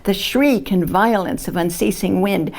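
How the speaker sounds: measured poetry reading with weighted phrases; poem reading. Acted. Poet reads a climate poem to an audience, measured recitation. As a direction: recite it in deliberate phrases, pausing at line breaks.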